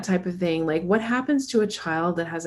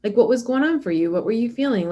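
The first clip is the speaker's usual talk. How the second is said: kind parent; 4 semitones higher than usual. Retold or imitated. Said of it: "The treatment that you do grow underneath is like".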